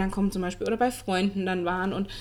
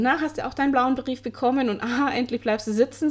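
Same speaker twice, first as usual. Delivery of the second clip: higher mock-gloating schoolmate taunt; imitating gloating classmates; 3 semitones higher, 3 dB louder than usual. Classmates taunt her about failing the year, mock gloating. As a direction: lightly act out classmates gloating at you. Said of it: "kamen Klassenkameraden zu mir und haben gesagt".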